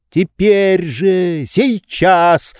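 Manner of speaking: high, slow, anxious urging; agitated hurrying. A narrator's reading. Oblomov flustered, hurrying Zakhar out. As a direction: rush him out, flustered. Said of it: "в волненье торопил его Обломов".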